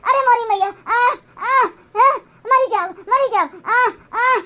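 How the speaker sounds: hammed-up groans of a fake heart attack; mock wailing. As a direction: moan and wail as if struck by a seizure. Wailing as if dying.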